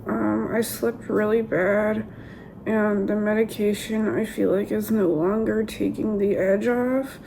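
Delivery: rough, strained voice after surgery; hoarse voice. Real, not acted. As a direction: speak through a sore, damaged throat. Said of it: "my voice is also really bad".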